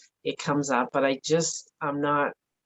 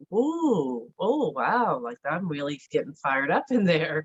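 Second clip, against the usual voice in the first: amused self-surprise; 3 semitones higher than usual. Retold or imitated. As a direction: catch yourself getting fired up, half laughing. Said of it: "But if you can go".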